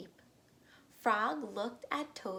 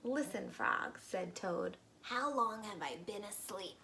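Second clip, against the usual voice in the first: Toad voice. Acted. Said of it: "my Toad voice".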